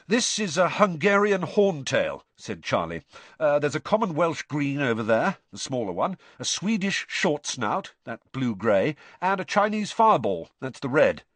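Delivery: proudly lists the dragon breeds for Hagrid; Charlie the keeper. Acted.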